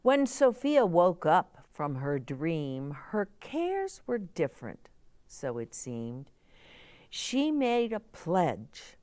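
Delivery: gentle, rhythmic storybook reading; reading to children. A narrator's reading. Storybook narration resumes.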